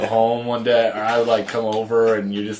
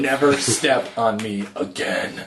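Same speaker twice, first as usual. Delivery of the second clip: harsh scale voice; 3 semitones higher, slower than usual. Pretend. Harsh scale scolding user.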